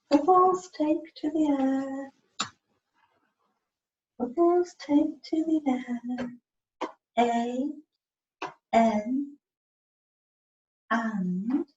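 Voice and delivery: slow, drawn-out dictation, each word spaced. Shown as a demonstration. Helper dictates slowly so Chris can write it. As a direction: spell it out slowly for him to write. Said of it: "helper dictating slowly for spelling".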